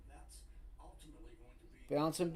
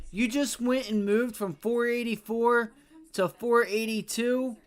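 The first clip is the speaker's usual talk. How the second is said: louder, pitched-up frustrated rant; angry rant; 4 semitones higher, 4 dB louder than usual. Real, not acted. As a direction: vent real anger at the market. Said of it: "You see why I get mad?".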